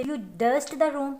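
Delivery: very slow, word by word dictation; teacher reading an example sentence very slowly. Shown as a demonstration. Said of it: "जैसे".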